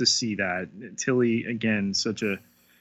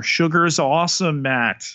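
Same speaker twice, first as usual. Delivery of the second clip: bright, fast and raised; excited; 6 semitones higher than usual. Acted. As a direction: sell it like a slogan. Cheerful catchphrase about sugar.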